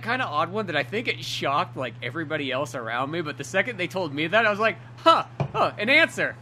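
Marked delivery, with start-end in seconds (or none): 5.0-6.3 surprised. Retold or imitated. Retelling reaction to his diagnosis.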